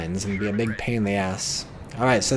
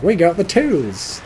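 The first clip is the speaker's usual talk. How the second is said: slow, higher hammed-up American accent; 6 semitones higher, 4 dB louder, slower than usual. Rear echelon troops boasting about tools, in an American accent. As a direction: drawl it out like a cheery American GI. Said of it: "Or some other American accent".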